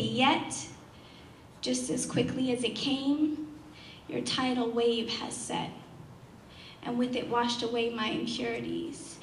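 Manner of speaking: measured poetry recital after the storm; spoken-word poem. Acted. Poet tells how the tidal wave has set, measured spoken word. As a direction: settle back into deliberate, paused verse.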